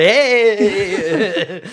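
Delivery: yelling at raccoons. Retold or imitated.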